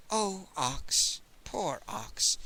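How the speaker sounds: gentle, hushed pity; tenderly, under the breath; softly. Acted. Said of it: "said softly".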